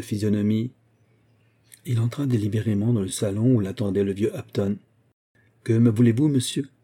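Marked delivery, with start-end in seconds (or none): 5.6-6.7 rough voice. Acted. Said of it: "d'une voix rude".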